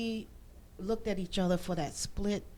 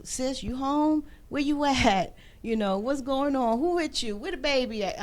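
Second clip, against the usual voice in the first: higher and louder, pressing questions; urgent brother; 6 semitones higher, 8 dB louder than usual. Retold or imitated. Police brother calling his sister, higher and louder with urgency. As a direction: fire the questions like a worried brother.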